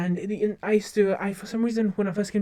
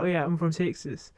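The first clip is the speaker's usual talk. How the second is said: quiet put-on Texan accent; lightly tossed-off Southern US accent; 2 semitones lower, 4 dB quieter than usual. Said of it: "in an accent".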